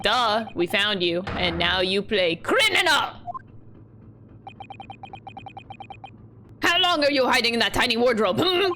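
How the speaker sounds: put-on accusing sailor with a rough Russian accent; attempted Russian accent. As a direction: interrogate in an amateur Russian accent. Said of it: "I'm not very good at Russian accents".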